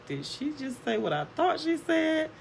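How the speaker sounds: high-pitched retold disbelief; high, incredulous inner voice; stunned daughter, imitated. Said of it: "her laugh just, like, froze".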